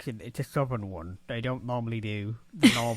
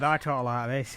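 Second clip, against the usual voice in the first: northern English accent. Shown as a demonstration. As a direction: show how northern England talks. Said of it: "'cause I'm from north".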